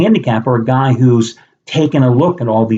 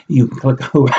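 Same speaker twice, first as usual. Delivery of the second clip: laughing. Real, not acted. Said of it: "excuse me, I get so choked, choked up".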